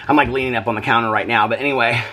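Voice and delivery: winded, short breaths. Real, not acted. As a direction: speak between gasps for air. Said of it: "I'm totally out of breath".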